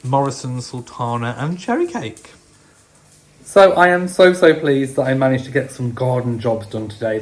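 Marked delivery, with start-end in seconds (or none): 3.4-7.2 excited. Real, not acted. Pleased about garden jobs.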